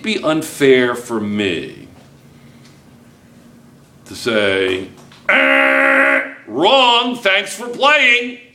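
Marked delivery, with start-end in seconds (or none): 5.3-8.4 high and far, slow sarcastic brush-off; mock dismissive teacher. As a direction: play a smug quiz-show host. Teacher mocks a dismissive grader.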